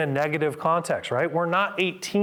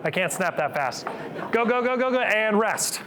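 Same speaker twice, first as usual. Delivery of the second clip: fast, urgent coaching, pitched up; coach hype; 5 semitones higher than usual. Real, not acted. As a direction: push them to go all out. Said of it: "coach urging all out".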